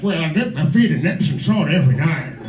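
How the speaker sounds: a hint of an elderly veteran; lightly voiced old war veteran. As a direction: mimic an old vet being interviewed. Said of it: "like, a World War Two vet".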